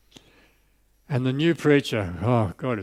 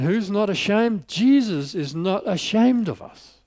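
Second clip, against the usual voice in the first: rousing question; 7 semitones higher, slower than usual. Acted. Preacher's rising question and answer.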